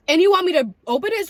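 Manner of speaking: high, loud disbelief; can't believe they'd ask that; incredulous. Real, not acted. To the rescuer, loud high-pitched disbelief.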